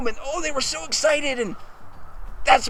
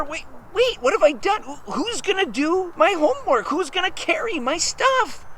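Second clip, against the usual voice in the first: higher-pitched, fretting questions; worried realization; 6 semitones higher than usual. Acted. Bully Bullfrog wonders who will carry his stuff, worried. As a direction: fret as it dawns on you.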